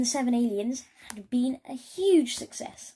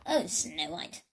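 sniffling; 4 semitones lower, slower than usual. Acted. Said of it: "sniffed Snotty".

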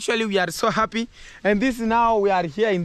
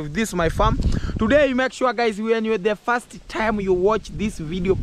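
ordinary delivery

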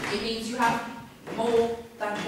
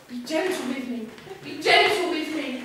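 lightly acted swooning girl, building higher on the repeat; husky girl's voice; 4 semitones higher than usual. Boy acting Linda's reply for his mate, lightly husky. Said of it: "her voice will be somewhat husky".

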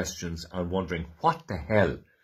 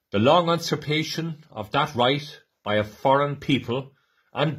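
solemn, rising public declamation; formal proclamation reading; 3 semitones higher than usual. Acted. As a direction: proclaim it to a crowd with conviction. Reads the 1916 Proclamation aloud.

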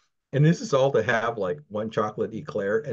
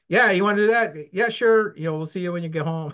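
much higher and louder, a mock carefree yes; breezy permissive parent; 10 semitones higher, 6 dB louder than usual. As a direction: toss off the permission like it's nothing.

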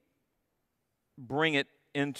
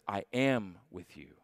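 present tense, hushed; 8 semitones lower, 7 dB quieter than usual. Shown as a demonstration. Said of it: "the way he said it".

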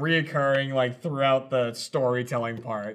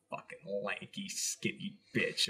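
low, whispered grumble; muttered insult; 8 semitones lower, 13 dB quieter, slower than usual. Retold or imitated. Muttering at Gavin across from you during filming, under breath. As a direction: curse them under your breath.

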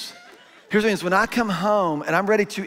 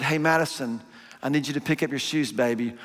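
lower, softer, tender ask to a daughter; a gentle fatherly request to pick up her shoes; 4 semitones lower, 3 dB quieter than usual. Retold or imitated. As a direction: ask her kindly, as a loving dad. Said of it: "When I said".

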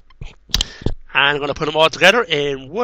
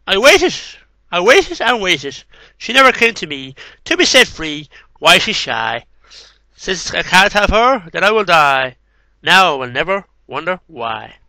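poem reading. Acted. Reading a final poem of lost love, recited. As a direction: linger on the repeats. Reads poems aloud.

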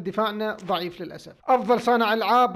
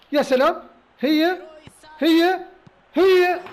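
each cry louder and higher; rising whoops; 7 semitones higher, 7 dB louder, much slower than usual. Real, not acted. Gamer celebrating a goal, whoops rising each time. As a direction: climb with every shout.

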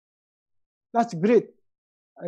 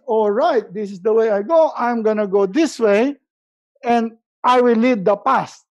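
resolute inner voice; 5 dB louder than usual. Pretend. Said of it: "So get better means".

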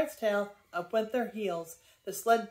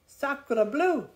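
loud, higher French oath; indignant exclamation; 5 semitones higher, 6 dB louder than usual. A narrator's reading. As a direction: curse the driver in indignation. Pierre sputters after the spill.

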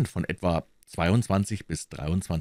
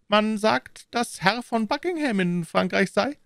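higher, sly, spiteful insinuation; spiteful smile. A narrator's reading. Aramis hints at gossip about the queen, sly and spiteful. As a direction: say it with a mean little smile. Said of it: "mit einem hämischen Lächeln".

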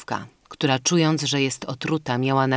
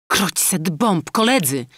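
slow, higher, louder oath; surgeon's exclamation; 5 semitones higher, 4 dB louder than usual. A narrator's reading. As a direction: spit out the curse, dragged out and raised. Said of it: "wykrzyknął chirurg".

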